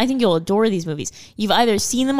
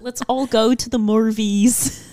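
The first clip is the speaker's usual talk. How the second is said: Nicole Kidman impression. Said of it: "Nicole Kidman do the pre-trailers".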